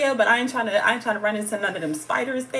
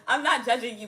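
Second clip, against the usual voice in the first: normal talking voice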